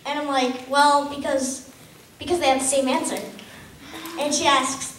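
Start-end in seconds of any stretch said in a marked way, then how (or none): 0.7-3.2 acted stalling. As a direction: stretch the first words, then hurry the excuse out. Caught out by teacher, stalling.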